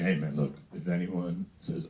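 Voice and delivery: low, slowed-down dad impression; mock low dad voice; crazy dad. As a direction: imitate your dad, low and deliberate. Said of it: "That's how he talks".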